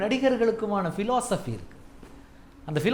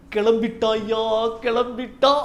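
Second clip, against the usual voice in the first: comedy movie catchphrase; 3 semitones higher, 4 dB louder, slower than usual. Retold or imitated. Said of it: "அப்படின்னு சொல்றோம்".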